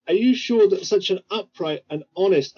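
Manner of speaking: pointed emphasis on "honest"; stress on HONEST. Acted. Adventurer flatters a trader for information, stressing "honest". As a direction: lean on "honest" as loaded flattery. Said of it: "put emphasis on the word honest".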